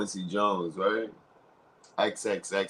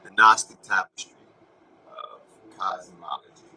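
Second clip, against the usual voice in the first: declaimed phrase; 8 dB louder than usual. Shown as a demonstration. Announcing the phrase loudly to his viewers. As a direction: boom "Gnostic" out loud, then let "of cosmology" fall. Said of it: "repeats it whispered".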